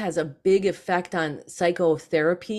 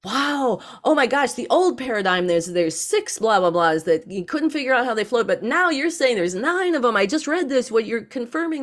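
a chemist amazed by the new paradigm; excited chemist; 6 semitones higher than usual. Retold or imitated. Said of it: "he was like".

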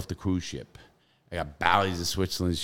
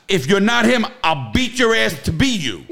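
higher and louder, mock tough-guy threat; 11 semitones higher, 5 dB louder than usual. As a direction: lean in on him and threaten. Threatening the crying escapee.

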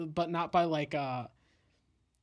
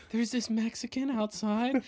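slower, higher alarmed neighbor voice; a nosy neighbor reporting, drawn out; mock neighbor; 5 semitones higher, slower than usual. Neighbors calling cops voiced.

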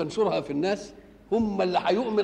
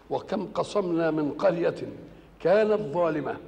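slow, measured chanting of the verses; solemn tajweed-style recitation; Quran recitation; slower than usual. Acted. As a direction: draw out each word reverently.

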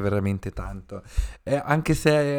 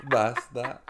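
laughing; slower than usual. Real, not acted. Laughing while deflecting.

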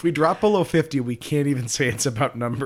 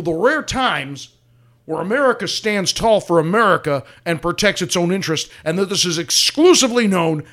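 a hint of a blustering talk radio host; pundit voice; 3 semitones higher than usual. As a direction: rant like a cable news pundit, lightly. Mock political pundit rant.

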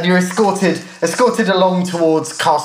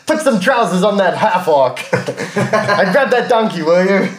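put-on American guard accent; 4 semitones higher than usual.

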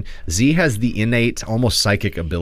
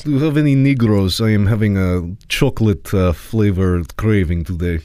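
put-on Putin in a hammy Russian accent, louder; 3 dB louder than usual. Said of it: "Do a Russian accent".

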